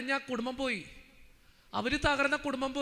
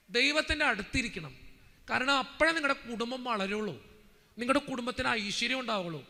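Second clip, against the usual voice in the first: preaching. Acted. Preacher urging families to draw close to God, emphatic preaching. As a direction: urge the congregation with firm conviction.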